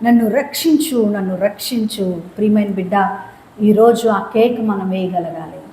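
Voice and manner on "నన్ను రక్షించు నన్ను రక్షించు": acted plea that fades; pleading. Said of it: "కేకలు వేశాడట".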